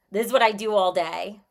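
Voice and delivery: ordinary talk, nothing marked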